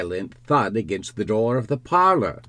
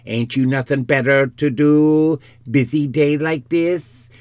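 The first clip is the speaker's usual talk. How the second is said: high, loud nagging complaint; raised, indignant country wife; scolding wife; 6 semitones higher, 7 dB louder than usual. Acted. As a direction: scold your husband for idling. Wife scolds her husband.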